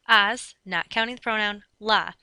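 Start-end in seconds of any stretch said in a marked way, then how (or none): 0.1-0.5 "as" as one separate, louder beat; counting syllables. Shown as a demonstration. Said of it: "I'm gonna count my syllables". 1.8-2.1 "la" as one separate, louder beat; counting syllables. Shown as a demonstration. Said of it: "I'm gonna count my syllables".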